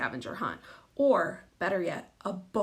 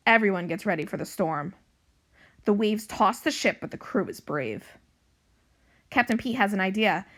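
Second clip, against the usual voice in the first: animated storybook narration, louder than chat; story reading to children; 4 dB louder than usual. A narrator's reading. Librarian reading a pirate cat book to young pupils, animated narration. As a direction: read it out clearly for young listeners.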